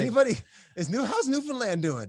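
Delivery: loud, high call to the crowd. Real, not acted. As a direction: call out to everyone watching. Calling out to the audience.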